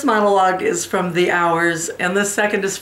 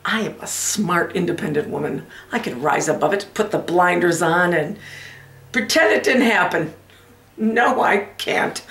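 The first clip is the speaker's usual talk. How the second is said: betrayed wife, forced composure. Acted. Wife vows to rise above the affair, composure slipping. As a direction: talk yourself into composure, then give up. Performs monologue from the Women.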